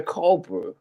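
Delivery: cold brew with an open Scottish vowel; Scottish-style "cold brew"; Scottish pronunciation. Shown as a demonstration. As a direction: say cold brew the Scots way, like "cawl". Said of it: "us Scottish people say cold".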